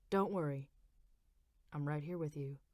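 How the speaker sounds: low, soft male voice for Rich; husband soothing his wife in hospital, low and soft; Rich's voice. A narrator's reading.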